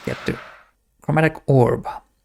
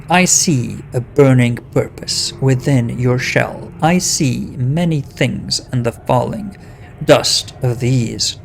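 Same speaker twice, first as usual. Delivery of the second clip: creaking stone voice; slower than usual. Acted. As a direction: speak like grinding rocks. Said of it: "in a creaking voice".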